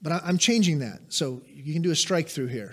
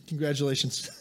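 usual speaking voice

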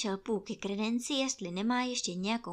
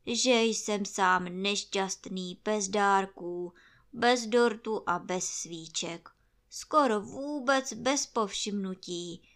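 near tears; 4 dB louder than usual. Acted. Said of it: "málem propukl v pláč".

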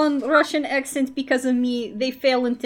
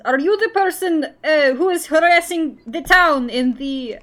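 in-character challenge; 4 semitones higher, 5 dB louder than usual. Acted. The speaker confronts villain in character.

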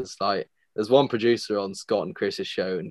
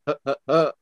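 imitated grunts; 4 semitones higher than usual. Imitating sounds he listened out for.

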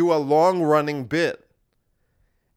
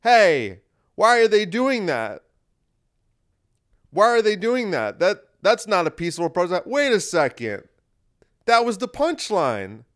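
higher, excited dawning realization; mock realization; 3 semitones higher than usual. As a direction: act out suddenly getting the joke, pitch up. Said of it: "We should have went".

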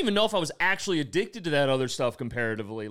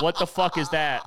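put-on old man at the bar; 4 semitones higher, 6 dB louder than usual. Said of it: "they're like".

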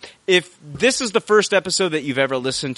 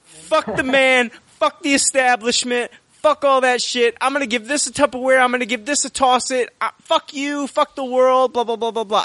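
snarling punk; 12 semitones higher than usual. Retold or imitated. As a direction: sneer it out like an angry punk rocker. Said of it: "you say".

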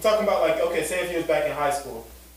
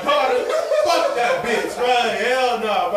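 raised voice, high and loud; 5 semitones higher, 4 dB louder, slower than usual. Real, not acted. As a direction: shout it, worked up. Heated rant against the dad.

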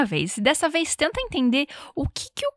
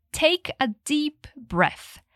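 slow demo; 4 semitones higher, much slower than usual. Shown as a demonstration. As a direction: model it slowly for learners. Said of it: "a gente diz". (devagar e mais suave, como modelo)

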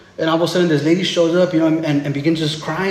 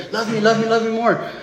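higher, needy chant, hammed up; mock pleading; 4 semitones higher than usual. Preacher mimics a believer trying to butter God up, mock pleading. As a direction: imitate someone begging for approval.

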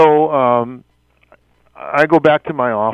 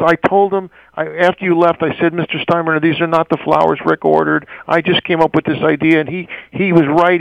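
mildly frantic, higher-pitched explaining; retold frantic florist; 4 semitones higher than usual. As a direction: imitate a flustered florist pleading her case. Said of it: "frantic woman from the florist".

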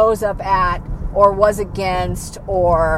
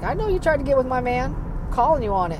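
higher, fast sassy callout; confronting girl; 5 semitones higher, much faster than usual. Retold or imitated. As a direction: call her out quickly and boldly. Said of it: "she's like".

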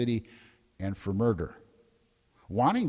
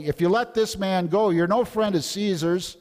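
higher, louder threatening cry; read crowd shout; 8 semitones higher, 5 dB louder than usual. A narrator's reading. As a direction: press Pilate as the mob. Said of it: "the Jews kept shouting".

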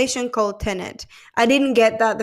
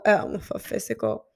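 burp breaks the words; words cut by a burp; 5 dB quieter than usual. Real, not acted. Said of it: "I'm sorry, I burped".

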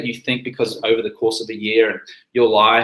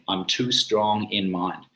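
slow, cheeky half-smile delivery; little smirk; 4 semitones lower, 6 dB quieter, slower than usual. Shown as a demonstration. Refusing a friend's pushing, slow and smirking. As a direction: savour it with a smirk. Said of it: "Do it with a little smirk".

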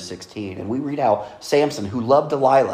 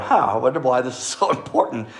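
sarcastic aside. Retold or imitated. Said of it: "I would be sitting there going".

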